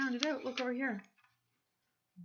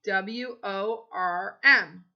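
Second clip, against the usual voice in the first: slow spelling; 7 dB louder, much slower than usual. Shown as a demonstration. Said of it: "Worm's over here".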